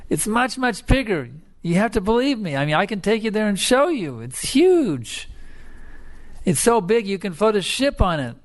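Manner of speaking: high, urgent insistence; a small frog begging to be believed, high and eager; pleading little frog. Acted. Little frog pleads with his teacher, high and urgent.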